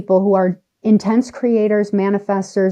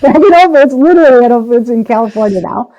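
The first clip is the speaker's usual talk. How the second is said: louder, higher burst of excitement; rising thrill as she tells it; excited; 4 semitones higher, 7 dB louder, faster than usual. Real, not acted. Guest telling host she was back, excited and loud. Excitedly reliving her Whole Foods moment.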